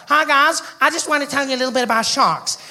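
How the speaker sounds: chirpy put-on TV expert voice; shark expert. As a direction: present it as an earnest shark defender. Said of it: "shark experts. And they come out".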